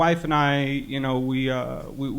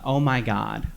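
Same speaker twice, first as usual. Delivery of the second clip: put-on creepy old lady; 5 semitones lower, 5 dB quieter, much slower than usual.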